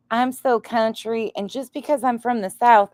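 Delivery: put-on a light parody of a Southern accent; mock Southern accent. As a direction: lay the Southern accent on thick to mock her. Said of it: "I can't even sound like her if I try".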